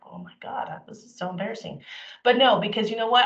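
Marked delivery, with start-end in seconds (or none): 0.0-1.8 hushed embarrassed whisper to herself; whispered self-doubt. Retold or imitated. Doubting herself about her posts, hushed whisper. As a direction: breathe it out under your breath.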